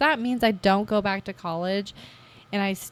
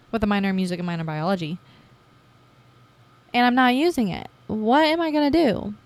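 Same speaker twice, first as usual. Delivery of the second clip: panicked realization. Retold or imitated. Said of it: "I'm like".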